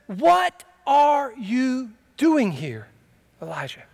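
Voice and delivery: voice of God. Acted. Voice of God in sermon.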